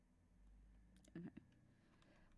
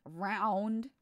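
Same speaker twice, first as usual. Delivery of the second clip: proud shout; 6 dB louder than usual. Acted. Embracing being round.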